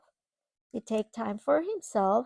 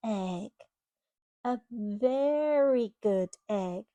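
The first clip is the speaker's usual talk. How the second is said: put-on storybook reading to a child; reading to children. Parent reading a storybook to a child, gently. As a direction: read it like a bedtime picture book. Reading picture book aloud.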